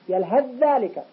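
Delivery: "يلهث ذلك" on one long dh; assimilated tha. Shown as a demonstration. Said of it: "هو الذي يؤثر على الحرف الأول". (إدغام ثاء "يلهث" في ذال "ذلك")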